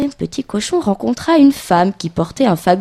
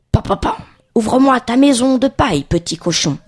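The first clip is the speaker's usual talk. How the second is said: lightly voiced wolf, higher-pitched demand; 3 semitones higher than usual. Wolf knocking at the little pig's straw house, demanding. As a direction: call through the door as the story's wolf.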